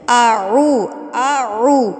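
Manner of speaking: اعو said clipped, the ain sound dropped; wrong recitation demo. Shown as a demonstration. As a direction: say اعو without the final ذال, as the common mistake. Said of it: "غلط کیسے پڑھتے ہیں اس کو؟". (غلط ادائیگی: اعو، عین کے بغیر)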